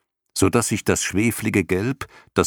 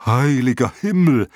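loud, higher shocked cry; dragon cries out; 6 semitones higher, 5 dB louder than usual. A narrator's reading. Dragon horrified by the plan, loud shocked cry. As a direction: exclaim in horror. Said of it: "schrie der Drache".

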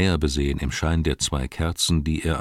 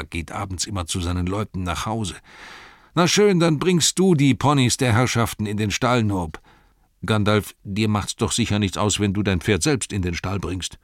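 rambling innkeeper, rushed in bursts; chatty innkeeper. Acted. Innkeeper rattling on to guests, lightly voiced chatter. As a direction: babble on without stopping.

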